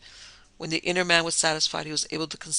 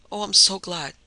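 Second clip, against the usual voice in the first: higher, louder burst of relief; relieved cry; 4 semitones higher, 7 dB louder than usual. Acted. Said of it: "she cried".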